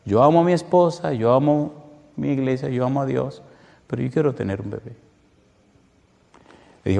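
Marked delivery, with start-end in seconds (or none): 0.0-5.0 retold tearful plea. Preacher retells husband torn between wife and baby, mildly tearful. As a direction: start pleading, then let the voice sink. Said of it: "comenzó a llorar".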